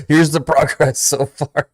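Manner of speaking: slow, high mocking trainer voice; mocking imitation. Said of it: "He's like".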